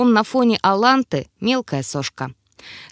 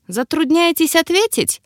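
higher-pitched, mildly mocking question; smirking elf; 8 semitones higher than usual. A narrator's reading. Elf needles the rector who cannot answer, smirking. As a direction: ask it with a light smirk. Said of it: "хмыкнул эльф".

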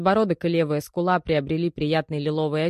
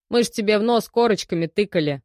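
loud indignant protest, pitched up; 5 semitones higher, 5 dB louder than usual. Acted. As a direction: bristle with outrage at the detainee. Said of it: "возмутился Белкин". (возмущённо, громко)

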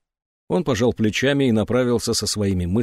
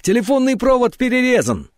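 much higher, louder alarmed shout; excited yell; 12 semitones higher, 4 dB louder than usual. A narrator's reading. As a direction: shout the news in a panic. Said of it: "орал возбуждённый Патрик".

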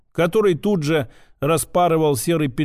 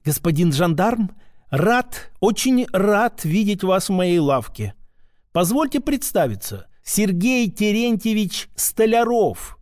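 gushing shopkeeper; 3 semitones higher than usual. Acted. Shopkeeper greets a gendarme entering his shop, gushing. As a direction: lay on the fawning welcome of a shopkeeper.

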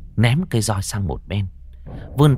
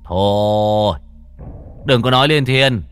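stern; 4 dB louder than usual. Acted. Exorcist cuts ghost off.

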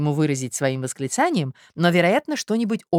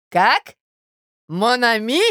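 higher, indignant echoed question; enraged outcry; 7 semitones higher, 5 dB louder, much slower than usual. A narrator's reading. Suitor answers her endearment, enraged. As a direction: throw the endearment back in fury. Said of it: "вскричал он в бешенстве".

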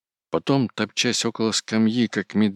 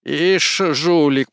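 much higher, louder yell; 10 semitones higher, 8 dB louder, much slower than usual. A narrator's reading. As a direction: shout the insult. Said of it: "продолжал кричать Кузьма".

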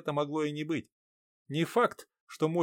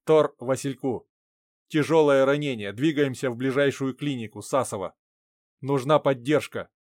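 loud, clipped radio call; over walkie talkie; 4 dB louder than usual. Acted.

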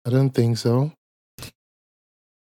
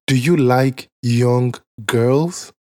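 slow mock interviewer question; much slower than usual. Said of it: "He said".

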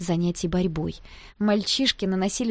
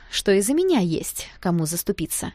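plain reading voice

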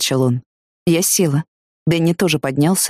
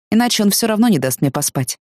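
ordinary delivery, nothing marked

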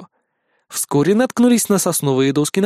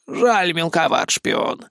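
mild complaint; slower than usual. A narrator's reading. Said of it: "посетовала старая крыса".

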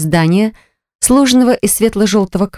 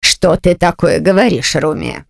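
slow, cold aunt with a false laugh; fake-friendly icy aunt; slower than usual. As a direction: feign warmth, keep it icy. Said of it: "Притворно рассмеялась женщина". (притворно-ласковая тётушка)

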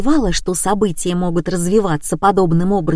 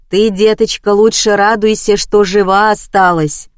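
ordinary delivery, nothing marked

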